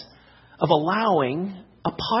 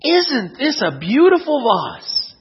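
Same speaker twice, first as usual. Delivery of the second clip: lightly acted, slow, lilting admiration; admiring grandmother; 3 semitones higher, slower than usual. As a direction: slowly admire it, pitch swooping on "beautiful". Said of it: "she turned to her husband and said".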